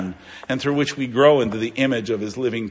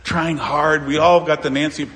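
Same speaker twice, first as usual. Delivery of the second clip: mock world view. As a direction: parrot the smug world's boast. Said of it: "our world likes to think".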